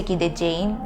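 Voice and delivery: "gideceğim" with a long "jeh-im" ending; over-careful, uncut "gideceğim"; non-native full form. Shown as a demonstration. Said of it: "you will not sound like a native speaker".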